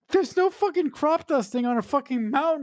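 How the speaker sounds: mock disbelief at the mountain; exasperated outburst. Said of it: "I'm like".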